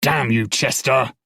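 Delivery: loud, exasperated yell; guard yelling for his missing partner, frustrated. Acted. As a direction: curse him in frustration. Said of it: "frustration in his voice as he yelled".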